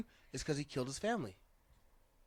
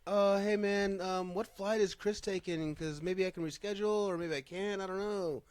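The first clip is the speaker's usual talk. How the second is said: lightly voiced laid-back beatnik, a bit higher; 5 semitones higher than usual. Retelling Eddie Guerrero's voicemail in a light beatnik voice. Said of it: "Sounds like a beatnik".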